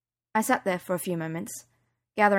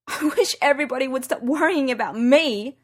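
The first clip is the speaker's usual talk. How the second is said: frustrated outburst, louder; exclaimed; 6 semitones higher, 5 dB louder than usual. Acted. Daughter protesting to her mum, exasperated exclamation. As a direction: burst out at all the fuss. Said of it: "I exclaimed".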